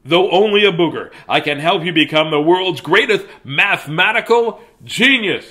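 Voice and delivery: lightly voiced booger. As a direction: speak as the booger, bigger. Booger character speaks.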